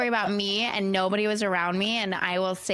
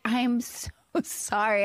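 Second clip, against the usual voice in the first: slow, imitated sheepish apology; mock-contrite, words dragged slowly; drawn-out apology; slower than usual. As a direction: stretch out a retold sorry. Quoting boyfriend's drawn-out apology.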